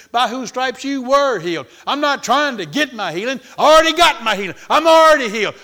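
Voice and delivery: high, building preacher's shout; loud victorious proclamation at the devil; triumphant defiance. Retold or imitated. Acted triumphant retort to the devil.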